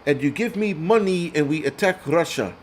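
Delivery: hammed-up Ukrainian-accented plea; mock Ukrainian accent. Streamer replays the cringe plea, mock Ukrainian accent. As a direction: imitate a groveling Ukrainian leader. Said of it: "his Ukrainian accent".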